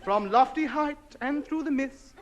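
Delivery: grand, slow poem reading; poetry recital. Acted. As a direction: declaim the sonnet grandly. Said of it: "Sonnet by A H".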